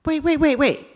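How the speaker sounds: sudden high alarmed wait wait; high startled self-interruption; startled double take. Retold or imitated. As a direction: catch yourself in alarm, pitch jumping up. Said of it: "And I said".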